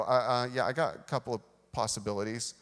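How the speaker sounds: hesitant, halting mock stammer; imitated stammer. Intimidated teen answering the alpha dog, stammering. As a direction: stumble into the answer as if bluffing. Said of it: "I pretty much stammer and go".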